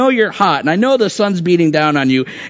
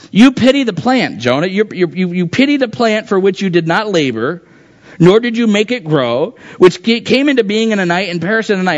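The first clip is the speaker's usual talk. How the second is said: higher, pressing rebuke; emphatic rebuke; 4 semitones higher than usual. Acted. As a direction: drive each you home to Jonah. God's rebuke voiced with emphasis.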